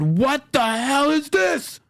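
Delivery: high, slow, drawn-out disbelief; retold shock. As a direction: stretch it out like you can't believe it. Retelling shock at the debt clock.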